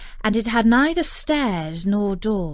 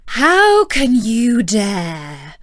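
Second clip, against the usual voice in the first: slow, loud, menacing witch voice; a furious sorceress drawing out each word; angry enchantress; 8 dB louder, much slower than usual. A narrator's reading. Enchantress rebuking the thief in her garden, slow and loud. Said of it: "said she with an angry look".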